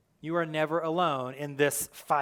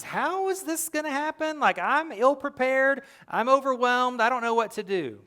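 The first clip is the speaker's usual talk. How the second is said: higher, anxious inner voice; worried doubter; 6 semitones higher than usual. Retold or imitated. Preacher voices a scared believer's doubts, higher pitched. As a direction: voice the listener's fearful doubts. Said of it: "You may have doubts and questions".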